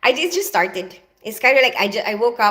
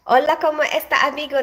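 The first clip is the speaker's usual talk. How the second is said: mock Spanish greeting; 5 semitones higher, faster than usual. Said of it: "That's all I know in Spanish".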